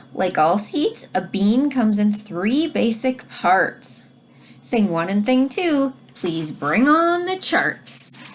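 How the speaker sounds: put-on reading to children. Teacher reads rhyming book aloud.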